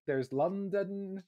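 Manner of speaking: slow, put-on London accent; mock London accent. Shown as a demonstration. Naming British accents to friends, in a mock London accent. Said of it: "variants of the British accent".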